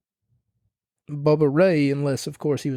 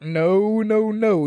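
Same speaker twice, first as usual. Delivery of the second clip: higher, insistent no no no; emphatic denial; 6 semitones higher, much slower than usual. Real, not acted. Fan ranting that the announced hometown is wrong, emphatic denial. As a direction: shoot it down with rising disbelief.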